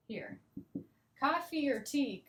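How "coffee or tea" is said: OR weakened to a short "er" in "Coffee or tea"; reduced OR. Shown as a demonstration. Teacher showing students the er sound, reduced OR. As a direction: say "or" as a light "er". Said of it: "you kind of hear the er".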